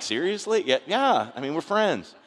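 men's friendship mocked by the ladies, mock disbelief; mock incredulous ladies. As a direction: play the skeptical ladies, loud and amused. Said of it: "Ladies are like".

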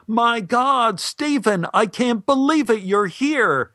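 high, thrilled overjoyed greeting; excited screaming greeting. Retold or imitated. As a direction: greet him like a long-lost friend, way up high. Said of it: "came running up to me screaming".

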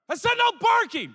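high-pitched insistent scolding; exaggerated squealed order; exasperated dog command. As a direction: lose patience with a yapping puppy, in falsetto. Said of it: "I say".

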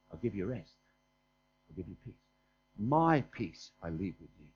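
hushed, low reassurance; gentle promise. Acted. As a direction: say it very softly, as a divine comfort. Quoting Christ's promise of rest.

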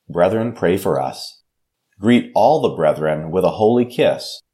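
measured, solemn Bible reading with pauses between phrases; scripture reading. Acted. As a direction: read the epistle to the congregation, unhurried and reverent. Pastor reads the epistle aloud.

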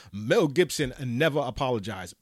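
lightly voiced Umar Johnson repeat voice; a hint of Umar Johnson repeating the point; Umar Johnson impression. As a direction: mimic the lecturer repeating himself, only a little changed. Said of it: "in my Umar Johnson repeat voice".

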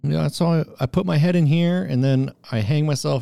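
dubbing the video in a goofy put-on voice; mock dub of the hanging man. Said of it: "Chris trying to dub what they're saying".

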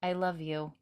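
a soft, hushed "I love you"; softly retold. Recapping the show, she softly tells Jamie I love you, hushed. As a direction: say it gently and under the breath. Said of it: "she says very softly".

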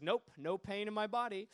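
lightly imitated smug dismissal; a mildly self-satisfied brush-off; retold smugness. Atheist lady brushing off the street evangelist, mildly smug. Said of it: "And she's real smug".

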